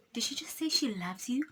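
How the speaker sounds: hushed whisper. Retold or imitated. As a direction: whisper it so nobody hears. Asking boyfriend secretly.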